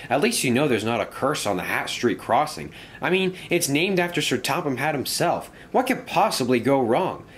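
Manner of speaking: lightly voiced friendly engine, pitch lifted; a touch of upbeat encouragement; cheering friend. Engine cheering up his grumpy friend, lightly acted encouragement.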